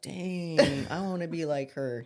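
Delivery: put-on a light kid's wide-eyed admiration; imitating an awed kid. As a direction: kids in class imitated as they admire the strong mom. Kids voiced admiring mom.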